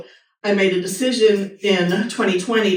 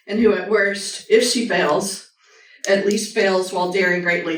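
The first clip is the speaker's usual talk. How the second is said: reading a quote aloud. Acted. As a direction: read it like a tribute to the brave. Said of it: "I'm gonna read it".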